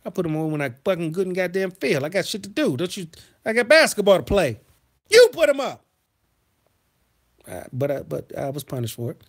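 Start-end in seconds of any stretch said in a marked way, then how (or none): 0.0-5.9 mock teen defiance turning into a yell; defiant back-talk. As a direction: talk back to mom, rising to a shout. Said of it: "And I'm like".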